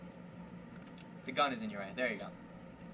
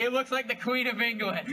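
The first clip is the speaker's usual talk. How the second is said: amazed; 8 semitones higher, 4 dB louder than usual. Real, not acted. Shocked at Queen image.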